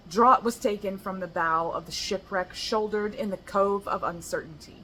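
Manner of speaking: steady recital of verse; poem reading. Acted. Sharing her poem about the shipwreck, recited evenly. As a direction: lean into the pirate imagery as you recite.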